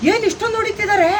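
high, loud dismayed question; acted loud astonishment; demonstrated shock. Shown as a demonstration. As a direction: exclaim in alarm at the beating. Director feeds a shocked line.

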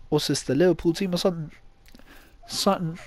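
put-on English accent; jokey go at an English accent. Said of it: "stop doing the English accent".

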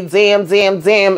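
a light take on Florida Evans' wail, damn three times; lightly voiced sitcom mom despairing over a TV plot; Florida Evans voice. Vlogger reacting to the episode with a mild Florida Evans damn. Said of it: "in my Florida Evans voice".

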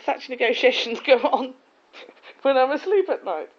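loud, slow, laughing through the line; amused, chuckling as she tells the joke. Retold or imitated. Laughing retelling to Darren.

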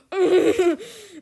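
high burst of laughter; loud high laugh. Real, not acted. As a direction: let a big laugh burst out. Cracking up.

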